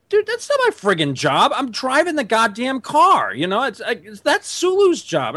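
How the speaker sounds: high, indignant mock Sulu rant; imitating an irate Sulu. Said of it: "Sulu's gonna turn on and go".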